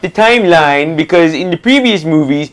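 nerd voice. Pretend. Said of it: "I'm gonna put on the nerd voice for this".

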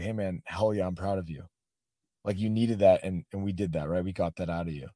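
retold quiet reassurance. Coach comforting a tearful student after the match, quietly reassuring.

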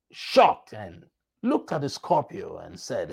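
ordinary delivery

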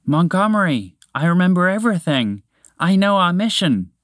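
loud booming moose. Acted. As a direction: boom it out like a big happy moose. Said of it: "with a voice as loud and booming".

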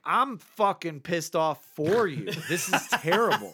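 fake-furious on a friend's behalf; laughing rant at the bad service; mock outrage. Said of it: "I'm like".

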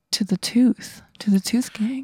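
soft unvoiced whisper, almost secret. Real, not acted. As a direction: breathe it like a confession. Player whispers loyalty choice.

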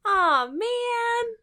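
high, whiny aw man; mock disappointment. Real, not acted. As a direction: groan it like a let-down fan. Mock disappointment at failed plot.

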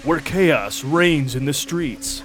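slow, dramatic movie-trailer narration; ominous trailer announcer; horror trailer voice. Acted.

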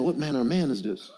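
soft, laughing What manner of man; marvelling with a chuckle; amused disbelief. Retold or imitated. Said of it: "I'm saying".

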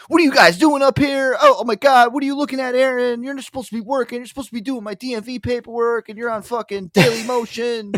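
high, loud bossy yelling; mock scolding boss. Cousin Mike catching Aaron slacking upstairs, high and loud. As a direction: bust in on the slackers like a furious boss. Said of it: "my cousin Mike would come upstairs".

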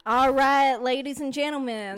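put-on country announcer's sign-off; Southern twang. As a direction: play-act a Southern host signing off. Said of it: "keep on the southern twang".

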